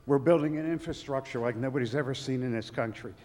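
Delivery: out of breath from running; winded, talking between breaths. Real, not acted. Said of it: "I'm out of breath for running up here".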